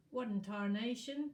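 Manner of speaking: loud startled exclamation, a touch of Texan; exclaimed. A narrator's reading. Tall man arriving behind the lawyer, exclaiming in surprise. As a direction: burst out in surprise. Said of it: "the tall man exclaimed".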